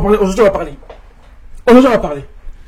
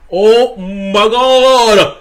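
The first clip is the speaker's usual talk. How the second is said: shocked gasp; 3 dB louder, much slower than usual. Retold or imitated. Choquée par le mollard au visage.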